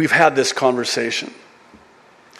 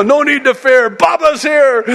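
hammed-up rescuer, higher and louder; mock heroic dad; 13 semitones higher, 6 dB louder than usual. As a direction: play the brave father arriving. Dad reassuring scared daughter.

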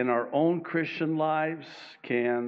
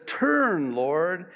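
pleading cry to God; 2 semitones higher, slower than usual. Acted. Psalmist crying out to the Lord, slow raised plea. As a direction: cry out to the Lord for deliverance, drawing it out. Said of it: "he cries out to the Lord and he says".

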